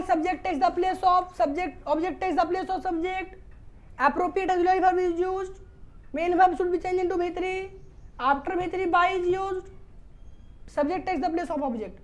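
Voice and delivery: slow, measured classroom dictation; rule dictation. Shown as a demonstration. Teacher giving rules for students to copy, slow dictation. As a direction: dictate each rule slowly for copying.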